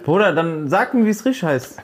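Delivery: real annoyance, pitch climbing; irritated outburst. Real, not acted. Man corrected by his friends, irritated outburst. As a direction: snap back, rising high at the end. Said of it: "Bruder, warum schreist du direkt?".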